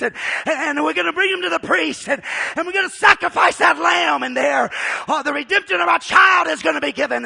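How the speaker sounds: loud, building excited urging; excited Mary. Acted. Mary sending Joseph for a lamb, excitedly urging. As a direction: hurry him along with joy. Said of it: "she says".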